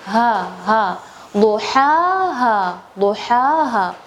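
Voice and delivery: ha pushed up from the low throat; deep throat ha. Shown as a demonstration. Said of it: "bawah tenggorokan sini".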